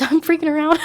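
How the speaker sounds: high imitation of a creepy character; playful high-pitched impression. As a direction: mimic him, pitched well up. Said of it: "that really high-pitched voice that goes".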